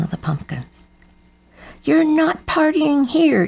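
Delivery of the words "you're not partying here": high, slow, firm warning. Acted. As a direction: set a firm line. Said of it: "warned Grandfather Crow".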